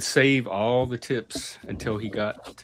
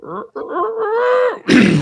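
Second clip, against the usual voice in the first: failed rooster crow; 7 dB louder than usual. Acted. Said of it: "I can't reach the high rooster note".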